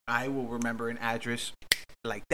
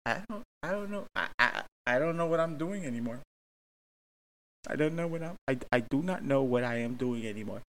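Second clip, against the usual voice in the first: mock defeated, a touch higher; exasperated; 3 semitones higher than usual. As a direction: give up, sounding lost. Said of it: "I was just like".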